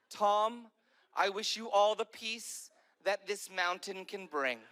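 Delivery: a mild hint of a grand benediction; lightly solemn Oprah. Imitating Oprah blessing Tom on a balcony, lightly solemn and slow. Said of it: "She goes".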